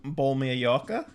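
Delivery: nervous Australian accent attempt; Australian accent, asked like a question. Shown as a demonstration. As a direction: try the Aussie phrase, tentative. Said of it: "That was actually pretty good".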